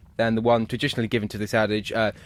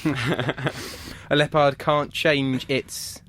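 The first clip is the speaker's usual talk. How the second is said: very slow, drawn-out prompt; very slow reading; much slower than usual. Shown as a demonstration. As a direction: linger on every word. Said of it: "rereads slowly".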